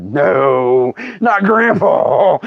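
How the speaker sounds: drawn-out pleading no; mock dread. Kids hearing grandpa will be told, mock dread. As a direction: stretch it out in comic dismay.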